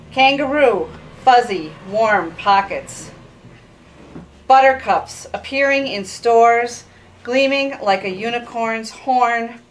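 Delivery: measured phrases with deliberate pauses; poetry reading. Acted. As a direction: let each image land separately, falling gently at the ends. Poet reads her poem aloud.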